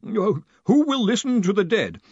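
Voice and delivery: high, far-off timid voice; nervous voice from far away; timid distant voice. A narrator's reading. Collarbone reading message.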